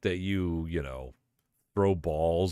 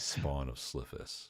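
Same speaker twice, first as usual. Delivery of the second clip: low, slow, soft ominous reading; dramatic monster title; 5 semitones lower, 10 dB quieter, slower than usual. Pretend. Relishing a B-movie monster name, slow ominous intoning. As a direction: savor the name like a horror trailer.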